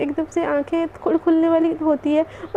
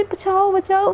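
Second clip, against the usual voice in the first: higher-pitched mock cry for help; half-hearted, play-acted yell; 4 semitones higher, slower than usual. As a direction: call for rescue without really shouting. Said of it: "Krishna ऐसे चिल्लाने लगते".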